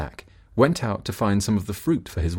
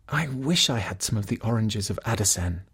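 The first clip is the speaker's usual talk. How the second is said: sick wife wishing; 4 dB quieter than usual. Acted. Wife wishes again.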